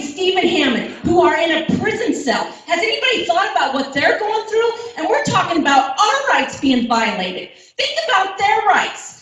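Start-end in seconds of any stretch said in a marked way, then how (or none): 2.7-9.1 higher, with a shaky laugh; real laughing plea for the jailed Hammonds. Real, not acted. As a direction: plead while a laugh breaks through. Laughing tearfully while pleading.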